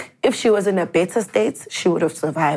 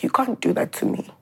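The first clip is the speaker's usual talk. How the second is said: breathy, tearful whisper, softer; 4 semitones higher, 4 dB quieter than usual. Retold or imitated. To her fading mother, a choked tearful whisper. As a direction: plead through tears, barely voiced. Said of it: "And then I just start crying".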